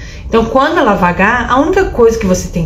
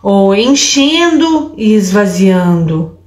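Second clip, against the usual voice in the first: slow breath labels; 3 semitones lower, much slower than usual. Shown as a demonstration. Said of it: "você pode falar subindo".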